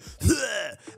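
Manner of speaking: high spluttering spit noise; mock blood splutter. All Might as the blood comes out, mock splutter. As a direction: imitate coughing up blood mid-boast.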